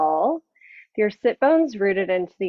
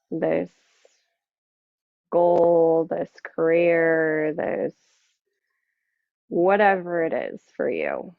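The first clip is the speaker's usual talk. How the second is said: guided meditation. Acted. Yoga teacher settling the class into seated practice, guided meditation. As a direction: ease them inward, unhurried, letting each phrase settle.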